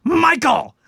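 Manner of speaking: high, loud calling scream; aunt screaming name. Retold or imitated. Aunt calling her son from downstairs, high scream. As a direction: yell the name up the stairs. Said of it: "my aunt would scream my cousin's name".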